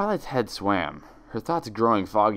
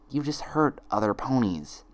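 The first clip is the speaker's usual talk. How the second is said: twin's accusation; 4 semitones higher than usual. Acted. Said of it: "Each friend repeated one of her twin's lines".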